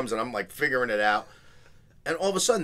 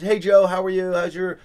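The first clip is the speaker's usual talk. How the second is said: club owner; 5 semitones higher, 6 dB louder, slower than usual. Retold or imitated. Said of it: "he goes".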